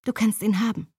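light, easy offhand; carefree. Acted. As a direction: shrug it off lightly. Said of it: "verkündete ich unbekümmert".

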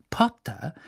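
gently calm the patient; soothing Madame Pomfrey. A narrator's reading. Nurse calms agitated Harry, soothing. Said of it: "sagte Madame Pomfrey besänftigend".

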